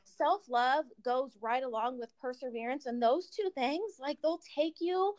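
breathless, slowed by short breath; talking while out of breath. Real, not acted. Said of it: "sorry, I'm out of breath".

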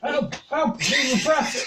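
high-pitched joking cry for help; mock cries for help. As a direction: cry out in hammed-up protest. Joking cries of peasant oppression.

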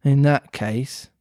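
solemn dodo. Acted. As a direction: pronounce it gravely and slowly. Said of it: "said the dodo solemnly".

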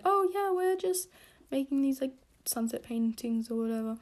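a hint of a casual know-it-all friend; mock breezy Taylor. A friend airily explaining the class project, mild mock breezy voice. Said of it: "and she's like".

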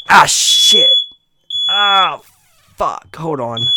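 sudden loud yelp of real pain, high; startled cry as a noise blasts the ears. Real, not acted. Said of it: "That hurt my ears".

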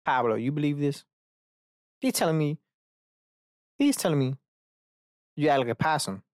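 a hint of scandalized appeal to a friend; incredulous. Scoffing to a friend about advice.

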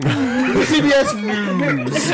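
slow, booming news anchor sign-off; newscaster voice. Retold or imitated. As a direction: drag out the network name like a TV anchor. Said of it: "the speaker's newscaster voice".

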